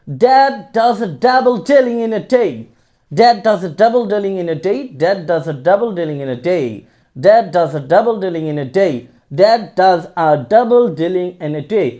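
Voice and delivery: slow, repeated lines; slow tongue twister. Shown as a demonstration. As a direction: go slowly over the twister. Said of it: "আ উচ্চারণ করতে হবে". (ধীরে বারবার tongue twister)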